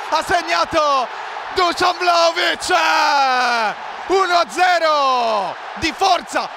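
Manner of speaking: screaming high, loud goal call; breathless italian goal commentary. Real, not acted. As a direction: shout the goal with pure joy. Goal scored, commentator erupts.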